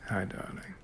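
low, soft British growl; growly British gentleman. Shown as a demonstration. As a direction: add a little growl to the British gentleman's greeting. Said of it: "add a little growl to it".

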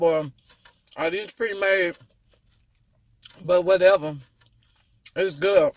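eating between words; talking while chewing. Real, not acted. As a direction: mouth partly full of food. Seen 2: Bites the quail at -5; jaw and cheeks keep chewing while talking.

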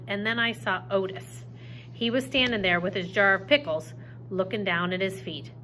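reading a novel aloud to the class; story narration. A narrator's reading. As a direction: tell the story to the students, lively. Teacher reads novel aloud.

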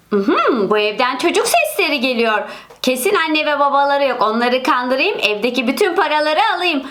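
low, sly villain muttering to himself; scheming burglar. Acted. Burglar plots outside door. (kapının önünde plan kuran hırsız, alçak sesle)

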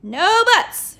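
loud, high firm shout. A narrator's reading. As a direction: cut him off sharply. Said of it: "shouted super librarian".

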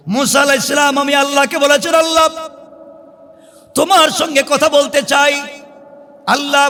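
high, ringing sermon delivery; preacher in a high, urgent pitch; impassioned preaching. Acted. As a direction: raise the voice and preach each phrase out. Preaches at full force.

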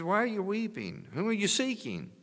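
high, tender voice of Jesus; Jesus asking. Retold or imitated. Jesus asking weeping Mary at the tomb, high gentle voice. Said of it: "He says".

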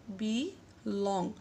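বি, pause, then লং, very slowly; syllables split for stress. Shown as a demonstration. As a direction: draw out বি লং as two separate syllables. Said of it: "লংয়ে একটু জোর". (বি লং, আলাদা করে ধীরে)

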